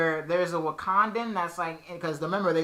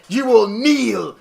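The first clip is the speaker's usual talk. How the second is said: slow, commanding villain voice; lightly voiced Loki command; dark lord; 3 semitones higher, 6 dB louder, slower than usual. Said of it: "Loki is like".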